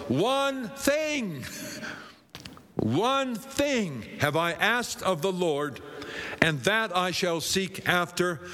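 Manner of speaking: drawn-out, intoned psalm reading; scripture reading. Acted. Preacher reads Psalm twenty-seven to the congregation, slow intoned scripture reading. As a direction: linger on the key phrases, intoning the verse.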